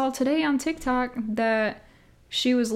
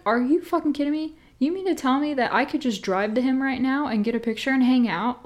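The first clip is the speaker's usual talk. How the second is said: higher, fast, thrilled outburst of disbelief; excited disbelief; 4 semitones higher than usual. Retold or imitated. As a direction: gush it out like you can't believe your luck. Excited reaction to celebrity news.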